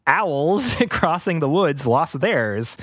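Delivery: slow, solemn read-aloud; dramatic storybook reading. Acted. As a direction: read it slowly like a spooky tale. Rereads the line slowly, dramatically.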